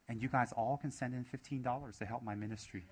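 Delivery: mock Southern televangelist accent; lightly put-on Southern preacher's appeal; fake Southern accent. Lama plays televangelist asking followers for donations, fake Southern accent. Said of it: "I can even fake a Southern accent".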